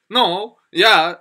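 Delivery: lightly mocking retort; teasing. Coworker teasing over the word can't, teasing. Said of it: "놀린 거예요".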